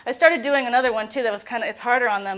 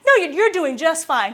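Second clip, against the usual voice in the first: loud, higher, shooing the critic away; mock self-love shout; 3 semitones higher, 7 dB louder than usual. Client defending themselves against the inner critic, loud shooing. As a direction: chase the critic off, then reassure. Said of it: "they'll be like".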